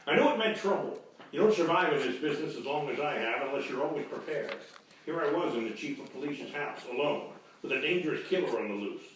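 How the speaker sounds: tough private-eye narration, deadpan; hard-boiled narration. Acted. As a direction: narrate like a noir detective.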